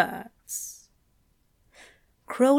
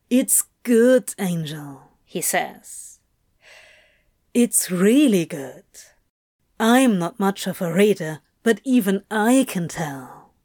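lightly lowered demon voice, reassuring; Crowley voice. A narrator's reading.

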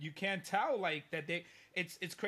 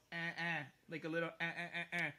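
imitated fake baby cries; faster than usual. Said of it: "she'll go".

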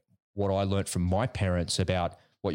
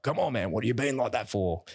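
put-on exasperated teen; 3 semitones higher than usual. Son pushing back at his resisting father, exasperated plea. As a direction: groan it like a fed-up son.

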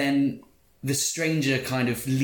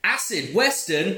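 surprised; 8 semitones higher, 4 dB louder than usual. Real, not acted. Incredulous echo of genre name.

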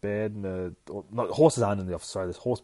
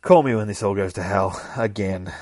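louder, fed-up farewell; bitter parting shout; 10 dB louder than usual. Acted. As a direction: fling it back as you leave. Friend leaving after argument.

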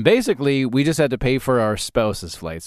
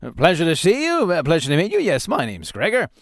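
put-on drunk pompous greeting; 4 semitones higher than usual. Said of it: "in my mind".

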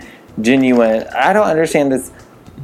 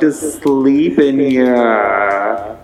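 drawn-out yell; much slower than usual. Real, not acted. Yelling at car alarm outside.

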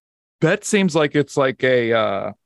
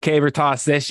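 Caber Toss in a put-on Boston accent, higher; "Caber Toss" hammed up Boston style; mock Boston accent; 4 semitones higher than usual. Host retries the beer name in a mock Boston accent. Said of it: "I just do a Boston accent".

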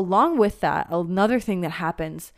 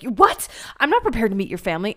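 fast, louder startled protest; mock panic; 2 semitones higher, 4 dB louder, faster than usual. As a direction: blurt it out caught off guard. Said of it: "And you're like".

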